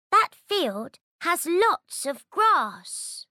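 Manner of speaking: put-on high, childlike goat voice; little goat voice. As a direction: play the little goat, eager. Baby Goat quote in story.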